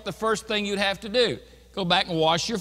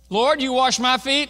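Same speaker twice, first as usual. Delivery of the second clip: higher, louder, disbelieving question with "you" stressed; emphatic you; 8 semitones higher, 6 dB louder than usual. Acted. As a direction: challenge the Lord, hitting "you" hard. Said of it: "it's an emphatic".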